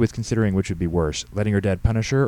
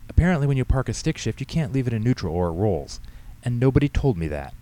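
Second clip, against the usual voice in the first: put-on higher-pitched, lively girl's excuses; teenage daughter explaining; 6 semitones higher than usual. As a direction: play the daughter justifying herself to Dad. Voices teenage daughter Katie.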